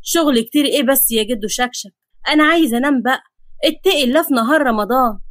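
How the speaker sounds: mildly weary protest; understated exasperated plea; fed up. Acted. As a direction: grumble at being woken. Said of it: "نفخ أحمد بزهق وقال".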